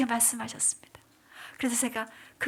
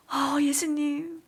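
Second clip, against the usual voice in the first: slow, awed sigh of a name; breathless astonishment, drawn out; a hushed moment of shock; stunned gasp; 3 semitones higher, much slower than usual. Retold or imitated. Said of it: "너무 제가 너무 놀랐어요".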